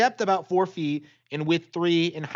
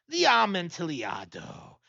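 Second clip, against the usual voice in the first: startled exclamation; 3 semitones higher, slower than usual. Acted. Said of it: "ejaculated my friend".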